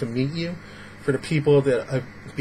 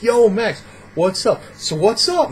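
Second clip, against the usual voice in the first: pushy greeting, pitched up; brash butting-in; 6 semitones higher, slower than usual. Acted. Rude guy interrupts Max talking to three people, brash. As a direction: butt in with a mock-cheeky hail. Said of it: "interjecting into the conversation".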